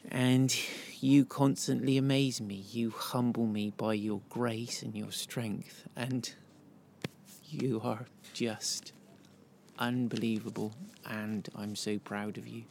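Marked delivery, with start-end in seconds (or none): 2.7-12.6 softer, voice thick with held-back tears; fighting tears while praising her; getting teary. Real, not acted. A husband honouring his wife Anna on their anniversary, getting teary. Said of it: "I'm getting all teary now".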